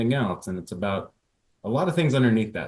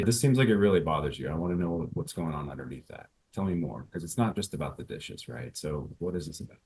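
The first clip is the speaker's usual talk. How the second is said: softer, understated caring question; gentle asking; 4 semitones lower, 5 dB quieter than usual. Shown as a demonstration. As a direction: ask softly, inviting her to open up. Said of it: "demo going low, gently".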